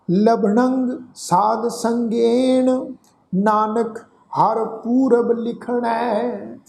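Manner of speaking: slow, drawn-out chanting of the verse; slow scripture recitation. Shown as a demonstration. Teacher recites the verse for the congregation, slow chant. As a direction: intone each word slowly and reverently. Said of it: "ਇਹਨੂੰ ਫਿਰ ਤੋਂ ਧਿਆਨ ਨਾਲ ਸੁਣੋ ਜੀ".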